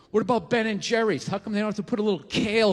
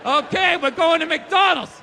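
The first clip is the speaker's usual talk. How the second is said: louder, raised, trance-like announcement; hypnotized declaration; 6 semitones higher, 6 dB louder than usual. Retold or imitated. Giving in to the craving, loud robotic announcement. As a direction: declare it like a brainwashed sleeper agent. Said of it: "like the Manchurian Candidate".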